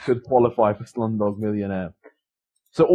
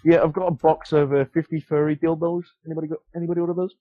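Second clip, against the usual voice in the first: delivery man voice; 5 semitones higher than usual. Retold or imitated. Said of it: "But I was like".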